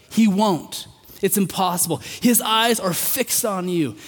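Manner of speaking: a preacher swelling toward the climax; rising preaching. Acted. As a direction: build to a fervent promise. Sermon builds to fervent climax.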